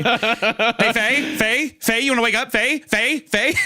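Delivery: hammed-up high panicky calling, rising on each name; frantic waking calls. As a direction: pretend to panic-wake a sleeper. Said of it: "that's how I'd be".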